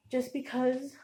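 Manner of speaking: breathless, catching air; out of breath. Real, not acted. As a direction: gasp the words out between breaths. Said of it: "um, I'm out of breath".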